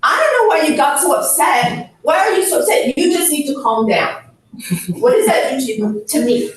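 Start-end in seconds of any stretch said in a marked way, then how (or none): 0.0-4.2 dismissive husband. Retold or imitated. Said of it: "when my husband says".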